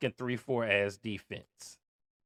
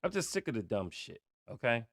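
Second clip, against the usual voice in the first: much softer, weary and fed up; softer, tired of it all; quietly fed up; 7 dB quieter, faster than usual. Real, not acted. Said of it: "Let me calm down".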